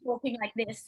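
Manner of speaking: light English accent; a touch of put-on English accent; English dialect. Shown as a demonstration. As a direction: briefly show off an English dialect. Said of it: "I did an English dialect".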